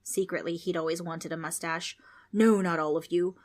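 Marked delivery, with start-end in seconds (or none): 2.3-3.4 louder irritated ghost; a mock yell from the ghost. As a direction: snap it back annoyed. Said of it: "the ghost yelled".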